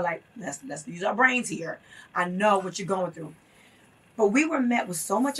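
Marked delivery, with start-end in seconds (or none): 0.4-3.3 consoling. Retold or imitated. Fellow mother consoling a distraught parent, retold calm consoling. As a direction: gently talk someone down, measured. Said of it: "went in there to console her".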